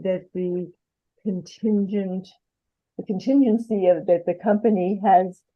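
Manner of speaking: muffled, like a hand over mouth. Real, not acted. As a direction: speak through a covered mic. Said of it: "You're just a, a bit muffled".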